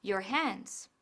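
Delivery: "wash your hands" drawn out slowly; slow model phrase. Shown as a demonstration. Narrator modelling the English phrase. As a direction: say it slow and clear for learners. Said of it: "Nosotros decimos".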